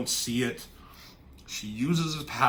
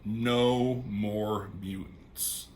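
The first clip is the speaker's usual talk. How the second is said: calm; 3 semitones lower, much slower than usual. Retold or imitated. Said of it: "She just says it calmly".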